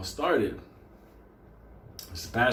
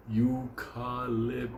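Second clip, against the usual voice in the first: smug drawn-out eucalyptus; 4 dB quieter, slower than usual. Retold or imitated. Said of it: "some of you motherfuckers at home like".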